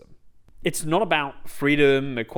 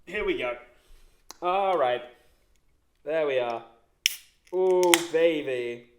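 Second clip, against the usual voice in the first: mock psyching up; 2 semitones higher than usual. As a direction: stretch it out like a crooner warming up. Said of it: "Now we're ready".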